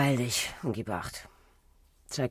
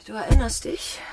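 sharp demand; 10 semitones higher, 8 dB louder than usual. Acted. Scharfe Nachfrage.

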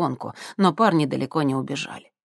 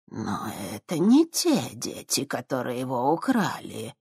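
wary; 2 semitones lower, 4 dB quieter than usual. Acted. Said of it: "настороженно сказала она".

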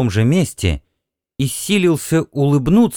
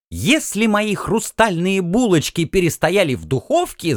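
high, frantic housewife; alarmed cry; 7 semitones higher than usual. Acted. Housewife frets about her buns, high and frantic. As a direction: panic about the oven. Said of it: "закричала она".

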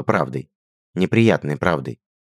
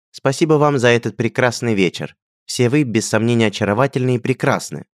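sincere prince; 6 semitones higher, 3 dB louder than usual. A narrator's reading. Он говорил искренне.

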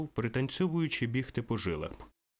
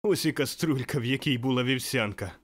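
mild exclamation; 2 semitones higher than usual. Acted. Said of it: "вигукнув він".

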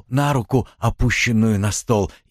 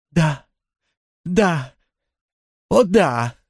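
ecstatic yes; 7 semitones higher, much slower than usual. A narrator's reading. Antoinette confessing love to Cowperwood, joyful and rising. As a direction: yield with growing joy.

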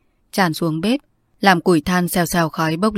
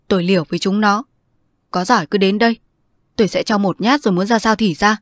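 defiant; 3 semitones higher, 3 dB louder than usual. Acted. John threatens with his knife.

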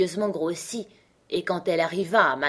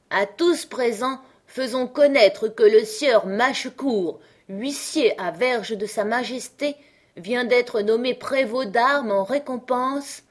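slow, higher town-crier proclamation; crying at full throat; 5 semitones higher than usual. Acted. Benjamin proclaims Mâchecourt's promotion to the street, slow proclamation. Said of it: "qui criait à gorge déployée".

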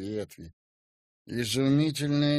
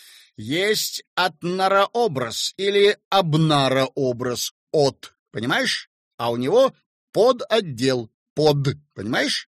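emphatic explainer; 3 semitones higher, 8 dB louder than usual. A narrator's reading. Slyozkin explains officiously, louder.

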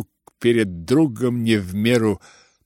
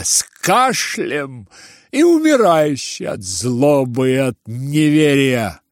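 put-on loud, high, slow old man's tirade; furious rant; 5 semitones higher, 4 dB louder than usual. Old general cursing the young man, furious tirade. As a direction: pour out wounded fury.

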